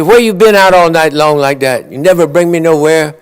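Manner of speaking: angry wife. Retold or imitated. Wife scolding her husband for coming home late, loud and indignant. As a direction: scold him for staying out all night.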